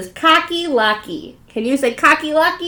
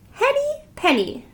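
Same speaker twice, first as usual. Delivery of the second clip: ordinary delivery, nothing marked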